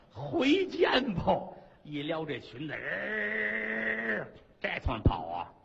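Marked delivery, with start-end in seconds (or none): 0.1-1.2 panicked farewell. Acted. Consort flees in panic.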